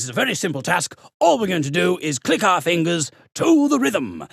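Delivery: lightly voiced posh schoolteacher; posh authoritative teacher. Music teacher setting the class a simple task, posh and authoritative. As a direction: imitate a teacher instructing with authority. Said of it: "very posh, kind of authoritative teacher".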